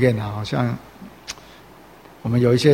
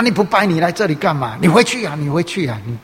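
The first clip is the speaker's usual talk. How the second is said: raised, scolding relative shouting him away; angry scolding; 3 semitones higher than usual. Retold or imitated. Relative scolding a believer who won't worship, angry raised scolding. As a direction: scold him like a furious elder. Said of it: "就在那边骂".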